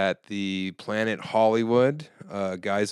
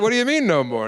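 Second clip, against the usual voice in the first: baffled; 12 semitones higher, 6 dB louder, faster than usual. Retold or imitated. Comic baffled by heckler.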